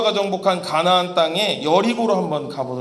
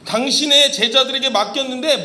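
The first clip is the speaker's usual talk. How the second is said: higher, louder desperate cry for help; father's pleading shout; 6 semitones higher, 4 dB louder than usual. Retold or imitated. Father crying out to Jesus for his son, loud plea. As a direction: call out to Jesus like a frantic father. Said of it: "막 소리 지르면서".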